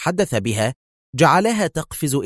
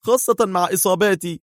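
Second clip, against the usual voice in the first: voiced grim hero; 8 semitones higher than usual. A narrator's reading. Hero explains escape is impossible.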